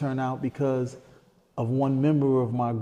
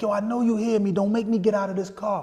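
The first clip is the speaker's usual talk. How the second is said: high-pitched warning, volume held in; retold threat; 10 semitones higher than usual. Uncle warns a man walking away from his car, retold threat. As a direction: act out the uncle's insistent threat.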